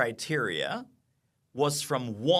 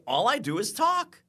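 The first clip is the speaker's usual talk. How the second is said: raised emphatic repeat; 8 semitones higher than usual. Retold or imitated. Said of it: "I said".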